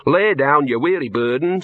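imitating a solemn spirit guide; big dog of death. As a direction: act out a grand dog calling someone home. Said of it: "this big dog that trots up to you and says".

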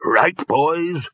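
lightly voiced chairman rallying the group; brisk leader. A narrator's reading. Chair ordering wizards to remove hats, brisk leader.

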